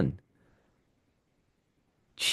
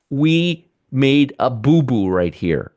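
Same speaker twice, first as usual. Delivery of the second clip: mock confession; slower than usual. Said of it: "That's called".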